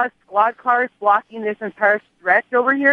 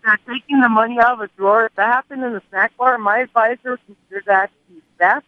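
holding nose. Acted. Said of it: "sound like you're holding your nose".

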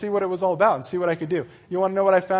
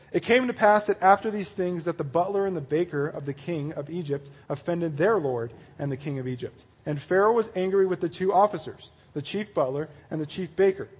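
measured read-aloud of a Bible story; scripture reading. Acted. Preacher reading Genesis to his group, measured narration. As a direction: read the passage out evenly.

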